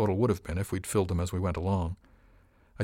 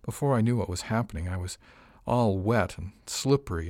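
purring moan. Acted. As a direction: purr it out suggestively. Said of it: "She lowered her voice to a purring moan".

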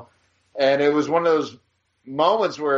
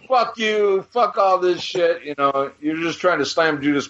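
higher, heated fuck you; a hammed-up outburst, higher; mock angry; 4 semitones higher than usual. Fan lashes out at photographer, higher and heated.

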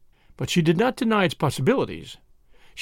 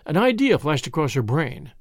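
plain reading voice

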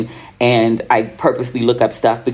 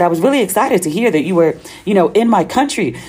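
higher, lilting friend's voice; imitated friend, pitched up; retold friend's excitement; 6 semitones higher than usual. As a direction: relay her excited remark in a raised pitch. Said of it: "She was making fun of my American accent".

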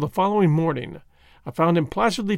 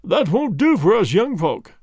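said aloud, a little louder; 4 semitones higher, 4 dB louder than usual. Acted. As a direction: speak up for all to hear. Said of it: "he said aloud".

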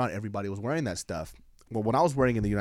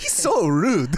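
giggled, high and loud; half-laughing mock complaint; laughing tour guide; 7 semitones higher, 7 dB louder, much slower than usual. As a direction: laugh through the apology. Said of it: "she goes".

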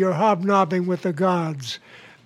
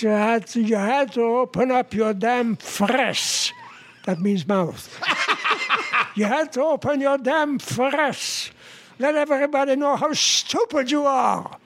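put-on Jewish accent; 4 semitones higher than usual. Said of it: "the husband ... he says".

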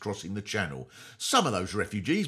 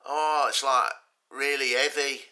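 loose, louder rambling raver voice; a band member explaining strategy; 5 dB louder than usual. Retold or imitated. A member of a band explains war strategy, mock raver ramble. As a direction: mumble it like a spaced-out dancer. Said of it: "he would explain the strategy was".

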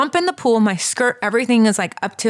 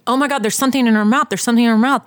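fast, higher, louder alarmed cry; retold frantic scream; 4 semitones higher, 4 dB louder, much faster than usual. Mother at the pool spots something in her daughter's mouth, frantic yell. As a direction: blurt it out in a panic, rushed. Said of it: "I literally start screaming".

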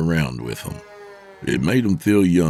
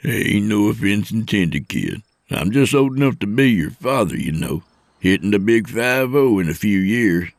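lightly voiced trucker, mostly pitched up; teasing older trucker; 4 semitones higher than usual. Older trucker ribbing his trainee, lightly teasing. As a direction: needle the kid in a friendly way.

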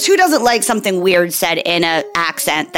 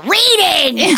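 put-on kid's answer; 10 semitones higher than usual. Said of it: "She's like".

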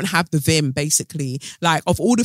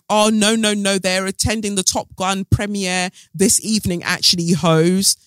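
sassy spin doctors; 3 semitones higher, 4 dB louder than usual. Retold or imitated. Spin doctors brushing off the rumours, sassy. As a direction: spin doctors denying the split, with sass. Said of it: "their spin doctors ... were like".

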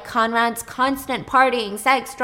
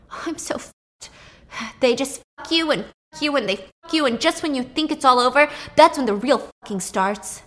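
panicked rant; 4 semitones higher, 4 dB louder than usual. Retold or imitated. Brother panicking in car.

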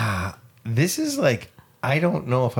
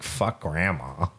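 mock old man; 6 semitones lower, 6 dB quieter, slower than usual. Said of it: "It was like".

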